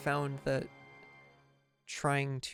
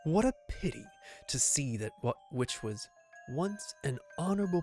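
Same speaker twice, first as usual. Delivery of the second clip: gravelly knight villain voice; 2 semitones lower than usual. Acted. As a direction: growl it like a menacing swordsman. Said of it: "Gravelly voice got me".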